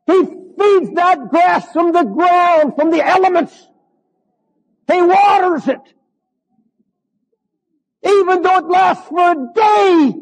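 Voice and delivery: fiery pulpit shout; preaching at full force. Real, not acted. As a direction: hammer each phrase home to the congregation.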